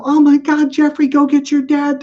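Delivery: high, loud alarmed yell to a friend; panicked child. Retold or imitated. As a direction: shout for help as a scared five-year-old. Five-year-old panics over frozen dog.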